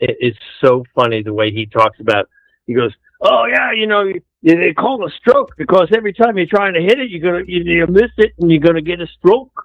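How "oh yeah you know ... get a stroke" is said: put-on Scottish accent, a bit higher pitched. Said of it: "Robin Williams talk in Scottish accent".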